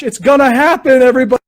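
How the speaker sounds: bubbling over as the shot flies; giddy, laughing exclaim; excited, laughing. Retold or imitated. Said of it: "I'm just like".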